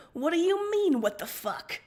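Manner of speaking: high, loud outraged retort; offended outburst; indignant. Acted. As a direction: throw the question back hard. Outraged reply to accusation.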